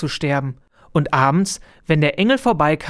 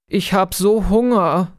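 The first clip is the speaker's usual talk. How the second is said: a light, higher little peep; piping; 4 semitones higher than usual. Acted. Hungry little bird tells angel, lightly piping. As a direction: squeak it like a starving chick. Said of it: "piepste Zizi Bä".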